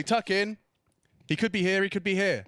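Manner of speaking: imitating a caster shouting; mock team comms callout; mock shouted callout. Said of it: "And you'll say".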